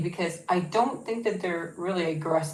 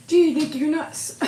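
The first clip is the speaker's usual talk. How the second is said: laughing, pitched up at the dog; amused high exclaim; 10 semitones higher, 6 dB louder than usual. Real, not acted. Owner laughing at her silly dog, high and amused. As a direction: tease her fondly through a laugh.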